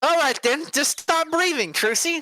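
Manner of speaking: high-pitched, huffy challenge; acted, worked-up retort; exasperated dare. Game lawyer dares the sidekick.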